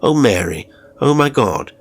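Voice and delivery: retold shouting. Carer lightly imitating Mr Robinson shouting in his sleep. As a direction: carer imitating the cries of a nightmare, fairly loud. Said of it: "You started shouting".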